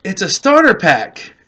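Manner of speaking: lightly high mock-teasing voice; teasing girlfriend. Girlfriend running up with the candy, lightly high and teasing. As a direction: hand it over like a cheeky joke. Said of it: "she's like".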